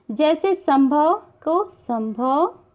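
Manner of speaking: संभव said very slowly, nasal म sound drawn out; anusvara pronunciation demo. Shown as a demonstration. Teacher shows students how to say संभव, slow careful demo. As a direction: spell out संभव slowly for the class. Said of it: "इसका प्रयोग पंचम वर्ण के स्थान पर".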